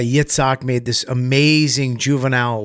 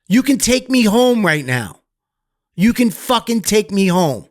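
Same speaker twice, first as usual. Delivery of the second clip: high, loud yell at his mom, reliving it; a kid's rage thrown back at his mother; retold angry yell; 9 semitones higher, 4 dB louder than usual. Retold: kid yelling at mom.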